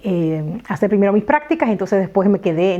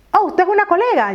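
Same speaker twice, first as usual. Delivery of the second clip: surprised question; 10 semitones higher than usual. Retold or imitated. Surprised lawyer voiced in story.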